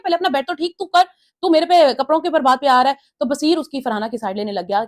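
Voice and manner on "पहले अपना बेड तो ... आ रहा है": raised, heated comeback in a quarrel; mimicking a housemate snapping back in a fight; angry retort. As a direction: fire it back at him, higher and louder.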